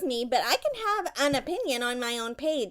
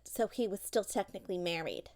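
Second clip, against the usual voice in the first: softer, whispered gossip aside; 5 semitones lower, 6 dB quieter than usual. Real, not acted. Scoring a point with her child in a gossipy whisper.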